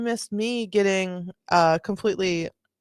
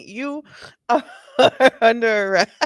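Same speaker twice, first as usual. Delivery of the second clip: louder, laughing through a cop line; laughing mock arrest; 3 semitones higher, 6 dB louder than usual. Streamer mimicking the cop's arrest line, laughing and louder. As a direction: announce the arrest while cracking up.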